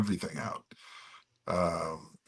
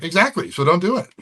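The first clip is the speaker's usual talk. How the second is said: retold emphatic retort; 7 semitones higher than usual. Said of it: "I'm like".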